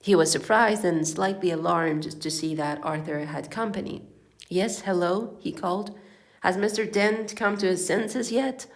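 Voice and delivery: low-pitched read-aloud storytelling; story narration. A narrator's reading. Reading a comic novel to listeners, story narration.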